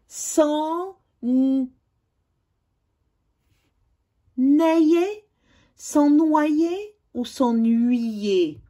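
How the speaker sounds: NAILLER, NOYER, S'ENNUYER very slowly, each ending stretched; sounded-out options. Shown as a demonstration. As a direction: offer NAILLER, NOYER, S'ENNUYER as slow choices. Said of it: "Complète les mots avec".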